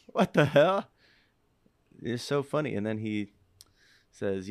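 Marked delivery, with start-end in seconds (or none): 0.1-0.9 high, loud what-the-hell; shocked disbelief. Retold or imitated. Asked to stay or go, a loud shocked outburst. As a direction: blurt it out in disbelief. Stunned by cashier's question.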